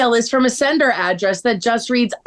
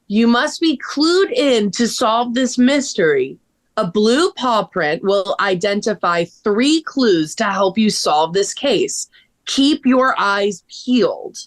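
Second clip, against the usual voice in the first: slow, deliberate and lower; mysterious message reading; 4 semitones lower, slower than usual. Acted. Elle reads the anonymous email to friends, slow and mysterious. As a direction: read it out slowly like an ominous riddle.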